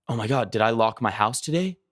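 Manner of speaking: lightly acted anxious worry, stammering; mock fearful. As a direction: pretend panicky thought. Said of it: "you're feeling very fearful".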